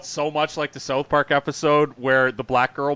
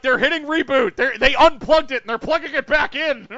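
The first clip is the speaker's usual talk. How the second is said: mock explaining; 12 semitones higher, 9 dB louder than usual. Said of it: "They're like".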